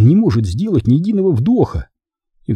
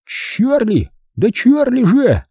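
calling out; 12 semitones higher, slower than usual. Acted. Benjamin calls waking Charlie.

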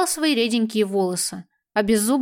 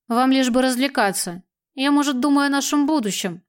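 reproachful tone; 3 semitones higher than usual. Acted. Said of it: "порицающим тоном ответил главарь".

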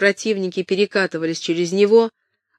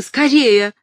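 higher and louder, calling the cook; urgent shout; 6 semitones higher, 6 dB louder than usual. Acted. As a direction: bark the order across the hall. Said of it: "крикнула Кэтрин".

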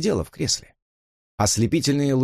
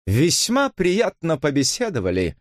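patronizing rudeness; 7 semitones higher than usual. A narrator's reading. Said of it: "бросила она с покровительственной грубостью".

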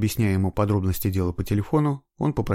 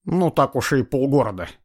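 ironic; 5 semitones higher, 5 dB louder than usual. A narrator's reading. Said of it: "иронично отозвался Глухов".

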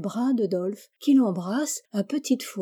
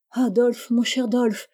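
plaintive cry; 3 semitones higher, 3 dB louder than usual. Acted. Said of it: "s'écriait chaque fois Rieg-G".

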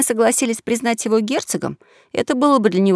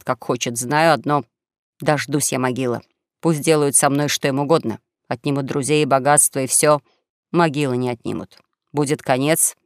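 understated martyr's lament, lower than the narration; self-pitying young swindler; 6 semitones lower than usual. Acted. Young swindler playing the martyr before his companions, understated self-pitying lament. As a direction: lament with measured, resigned pauses.

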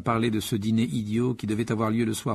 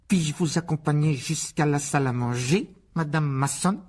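higher, mannered courtesy; affected polite son; 5 semitones higher than usual. Acted. Son rehearsing escorting an invisible lady, affected politeness. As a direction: play the little gentleman with false politeness.

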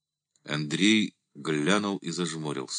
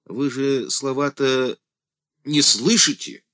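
louder, higher, slow-starting cry; exclaiming; 8 semitones higher, 4 dB louder than usual. A narrator's reading. The deacon cries out to Andrey, high and loud. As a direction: throws the question out in a high exclamation. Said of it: "воскликнул дьячок".

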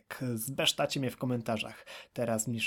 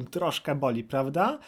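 ordinary delivery

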